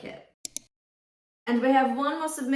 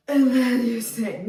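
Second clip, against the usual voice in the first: after a gasp, louder; overdone big breath; 5 dB louder than usual. Shown as a demonstration. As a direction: demo of too much air. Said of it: "it doesn't mean that you go".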